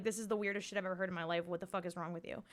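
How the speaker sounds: low, soft incredulous disgust; low-voiced mock disgust at a weird remark; annoyed shock. Shown as a demonstration. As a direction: sound weirded out and appalled. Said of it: "an expression and tone that shows, like, annoyance and shock".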